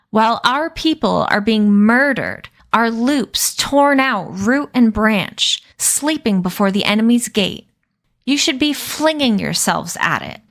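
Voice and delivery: trembling-with-outrage harangue; outraged tirade. Acted. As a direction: shame them for their idleness. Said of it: "Addison trembled with outrage".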